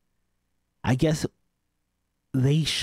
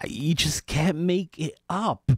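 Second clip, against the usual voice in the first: incredulous; 4 semitones higher, slower than usual. Real, not acted. Host incredulous at the news.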